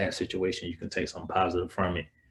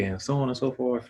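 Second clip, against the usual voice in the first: indignant retelling; 6 semitones higher, 4 dB louder than usual. Retold or imitated. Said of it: "I'm like".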